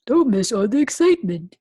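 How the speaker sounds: loud, fast announcer pitch; hyped promo read; excited teaser. Acted. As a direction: sell the excitement quickly. Announcer-style teaser line.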